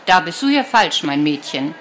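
put-on a touch of a dry old grandma setting her straight; gruff grandma.

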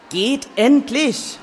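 slow, shaking, strained plea; trembling voice. Acted. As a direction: let the voice quiver and drag. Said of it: "Liams Stimme bebte".

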